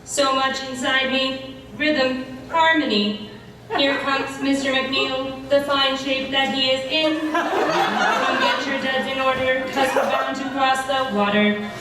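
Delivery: flat monotone robot voice. Acted. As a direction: speak like a droning robot. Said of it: "You're a giant robot death machine".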